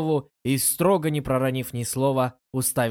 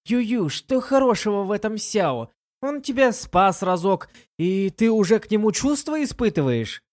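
a touch of scorn; mildly spiteful, dismissive; hateful; 8 semitones higher than usual. A narrator's reading. Lin Yueru mocks her friend's feelings with mild contempt. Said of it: "с ненавистью сказала".

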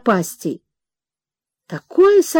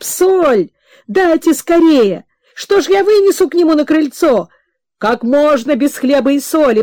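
fussing urgently; 4 semitones higher than usual. Acted. Old guest fussing, urging everyone.

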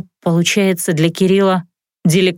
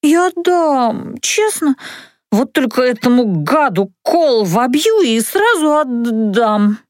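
solemn promise; 3 semitones higher, slower than usual. Acted. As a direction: swear it earnestly. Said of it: "клятвенно заверила".

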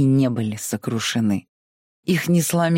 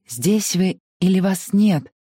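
drowsy murmur; 6 semitones higher, slower than usual. Acted. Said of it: "пробормотала она, засыпая".

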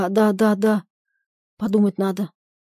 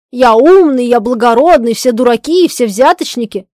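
mocking imitation of his pompous boast, louder; mimicking him; 2 semitones higher, 9 dB louder than usual. Wife mocks husband's boasting, mimicking him loudly. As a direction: ape his bragging tone with scorn. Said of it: "передразнивая его".

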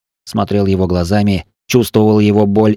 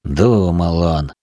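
slow, lower grumble; grumbling; 3 semitones lower, much slower than usual. Acted. The father grumbles at his reckless son, slow and low. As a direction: grumble it under your breath. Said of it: "проворчал я".

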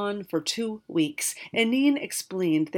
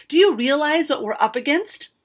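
higher and louder, exasperated wizard; fuming; 7 semitones higher, 8 dB louder than usual. Acted. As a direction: demand it like a fed-up old man. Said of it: "the wizard fumed".

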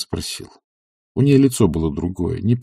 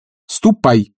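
louder, higher barked order; commanding shout; 5 semitones higher, 4 dB louder, slower than usual. A narrator's reading. Master ordering his servant away, a commanding shout. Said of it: "повелительно крикнул Обломов".

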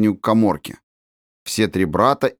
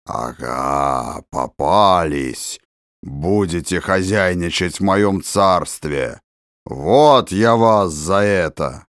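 much lower, slow ghostly boom; sepulchral voice; 5 semitones lower, slower than usual. A narrator's reading. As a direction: loom over them like a ghost. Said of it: "Гробовым голосом произнёс". (замогильный голос, медленно)

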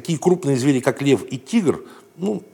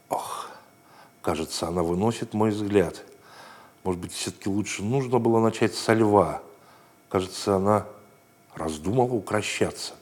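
hushed, uneasy inner voice; worried thoughts; 5 dB quieter than usual. Acted. Little boy doubting himself while approaching the dog, quietly. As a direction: think it to yourself softly, losing nerve. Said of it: "и думал".

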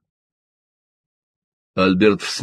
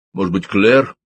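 thoughtful; 4 dB louder than usual. A narrator's reading. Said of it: "задумчиво сказал он".

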